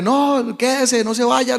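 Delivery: mock a friend begging him to stay; retold tearful plea. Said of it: "que estaba llorando y diciéndole". (súplica llorosa imitada)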